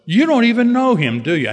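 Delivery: the sponsor leans in on the point; sponsor confronting. Retold or imitated. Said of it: "He said".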